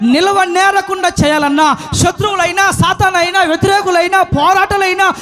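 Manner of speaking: driving sermon delivery in long rolling runs; impassioned preaching. Acted. Preacher urging the flock to face every enemy, impassioned. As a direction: preach it at full force, piling up each item.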